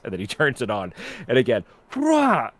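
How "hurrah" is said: high, loud cheer. Retold or imitated. Group cheering as the machine starts, a high loud hurrah. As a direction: throw up a victory cry.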